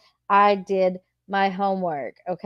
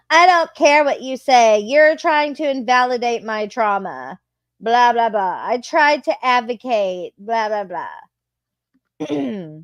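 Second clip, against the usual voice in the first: mocking whiny quote; 3 semitones higher, 3 dB louder than usual. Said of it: "her little manifesto".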